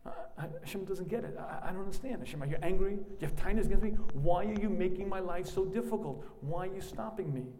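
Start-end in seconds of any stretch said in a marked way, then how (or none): 2.2-7.5 aggrieved plea. Retold or imitated. Complaining to God.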